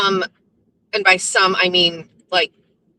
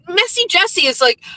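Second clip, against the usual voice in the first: ordinary delivery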